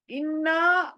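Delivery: اِنَّا with the doubled ن pressed hard; اِنَّا with a held, forceful ن; stress on the shadda. Shown as a demonstration. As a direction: lean on the ن in اِنَّا. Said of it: "جب بھی نون شدہ آتی ہے... force given there".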